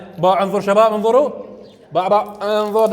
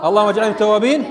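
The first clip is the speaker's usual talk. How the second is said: steady, formal recitation; teacher reciting the post-wudu supplication. Shown as a demonstration. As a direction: recite it like a prayer. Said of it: "ماذا يقول بعد الوضوء؟".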